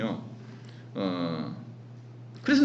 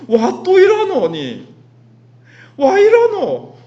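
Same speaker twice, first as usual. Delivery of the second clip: higher, louder remonstration building to a drawn-out cry; exasperated dialect scolding; 6 semitones higher, 6 dB louder, slower than usual. Acted. Preacher takes Abraham to task for forgetting God's help, exasperated scolding. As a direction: scold him in Gyeongsang dialect, ending in a high shout. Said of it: "우리는 아브라함에게 이렇게 말할 수 있죠".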